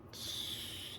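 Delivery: soft unvoiced shh; hushing. Real, not acted. Hushing the viewers before her unpopular opinion, whispered. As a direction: hush the viewers before a confession. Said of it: "don't come at me".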